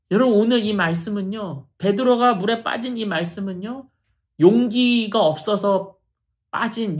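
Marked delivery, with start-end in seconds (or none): none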